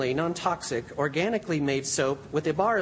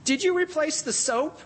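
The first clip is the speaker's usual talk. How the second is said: mild yell; 9 semitones higher than usual. A narrator's reading. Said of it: "he yelled to his wife".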